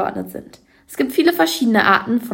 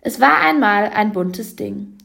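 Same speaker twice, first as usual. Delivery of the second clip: slow recited verse line; poem recitation. Shown as a demonstration. Presenter reading Heinz Erhardt to show couplet rhyme, slow. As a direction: read the line like a poem, unhurried. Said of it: "ist der Paarreim sehr gut erkennbar".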